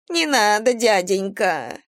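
high, slow wail of a begging vagrant. Acted. Vagrant woman begs the captain not to jail her, wailing. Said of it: "в голос завыла бомжиха".

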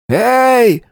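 a deranged gunman calling through a door; muffled madman's call. A narrator's reading. Gunman behind door to hostages, high eerie call. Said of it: "донёсся из-за двери глухой голос".

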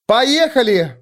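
high excited call; shouted. A narrator's reading. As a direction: call out to get moving. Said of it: "крикнула Вик".

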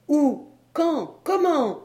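three high, separate, insistent questions; impatient questioning. Acted. Doctor pressing his reticent friend, impatient questioning. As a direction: fire each word out high, pressing for answers.

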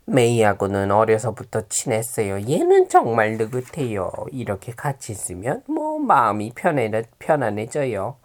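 pinched-nose nasal talk. Acted. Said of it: "코맹맹이 소리로".

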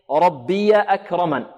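ربي ending in a voweled "ya", run into أكرمن; ربي said "rabbiya" in slow recitation; joined reading. Shown as a demonstration. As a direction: link "rabbiya" straight into أكرمن. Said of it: "هذه متحركة في الوصل".

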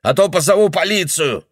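high, loud threatening yell; an old man shouting at a stranger; angry old man shouting. Acted. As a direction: drive the intruder out with a shout. Old man chasing girl out.

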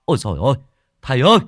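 excited shouting, climbing very high and loud; loud scream. A narrator's reading. A searcher finds the missing man, screaming out for the master. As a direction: yell the discovery out to the master. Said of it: "một người hét to".

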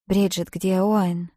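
ordinary delivery, nothing marked

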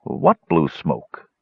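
slow, curious question; suddenly interested, drawn in. Acted. Flint questions Garth about the smoke, slow curious. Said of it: "suddenly curious".

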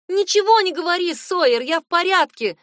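high, loud shout across the car. A narrator's reading. Dylan shouting to Sawyer over the phone. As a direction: yell it to stop the call. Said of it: "закричала я".

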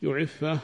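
يعفه opened with a short u, "yu-"; damma on the first letter. Shown as a demonstration. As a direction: say يعفه as yu'iffah, starting on "yu". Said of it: "بضم الباء،". (يعفه بضم الياء في أوله)

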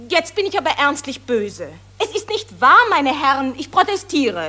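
an actress indignantly denies the reporters' claims; indignant protest. Acted. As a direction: protest hotly to the journalists.

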